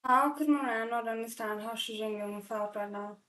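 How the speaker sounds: real tears while reading the line aloud; crying. Real, not acted. Reader rereading the sad line, really crying. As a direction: choke the words out through crying. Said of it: "'cause I don't wanna cry again".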